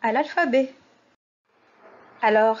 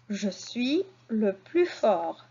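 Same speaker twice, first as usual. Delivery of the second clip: slow repeat; slower than usual. Shown as a demonstration. Teacher repeats the sentence slowly for the class. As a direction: repeat "Je suis le plus fort" slowly and gently. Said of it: "À la fin du mot suis".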